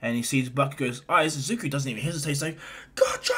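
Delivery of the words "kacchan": strained, stretched-out call; drawn-out cry. Acted. Boy rushing at the monster, long strained cry. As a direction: draw the word out as a battle cry.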